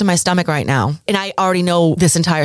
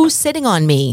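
plain

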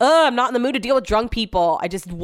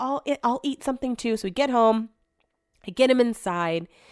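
ordinary delivery

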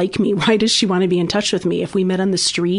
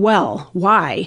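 put-on curt, negative staccato voice. Retelling a parent's replies to any opinion: imitating a negative staccato voice. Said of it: "this negative staccato voice coming back at me".

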